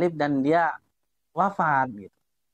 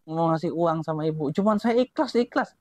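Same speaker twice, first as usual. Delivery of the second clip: higher, showy announcement of giving; mock shouting; 8 semitones higher than usual. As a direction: call it out for everyone to hear. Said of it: "kamu kira-kira teriak-teriak nggak?".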